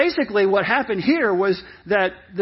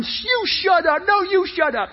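high, hammed-up squabbling; mock lost temper; 8 semitones higher than usual. Showing what Jesus was not doing, mock temper in high voice. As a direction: act out a petty tantrum. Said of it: "losing his temper".

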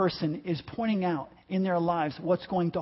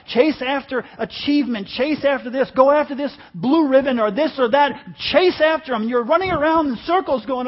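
raised, forceful preaching voice; impassioned preaching; 4 semitones higher, 5 dB louder than usual. Real, not acted. Preacher warning people off chasing stuff, impassioned preaching. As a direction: build higher and louder as you preach.

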